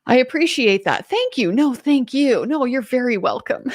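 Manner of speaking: mock exaggerated politeness; sugary overly polite exchange. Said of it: "over the top polite to each other".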